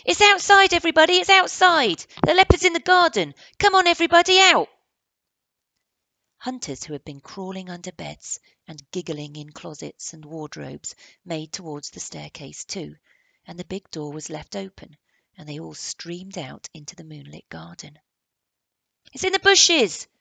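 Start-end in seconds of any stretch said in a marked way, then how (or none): 0.1-4.7 high, loud calling to everyone. Acted. Barney calls everyone to the garden, high and loud. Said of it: "calling out". 19.1-20.1 high, loud shout. Acted. Barney shouts to the crowd, high and loud. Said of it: "shouted Barney".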